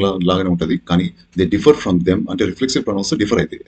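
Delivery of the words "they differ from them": slow rule reading. Shown as a demonstration. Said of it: "reading the rule".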